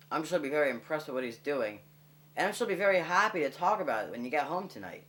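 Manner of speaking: mock formal dad. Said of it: "cleared his throat, and said".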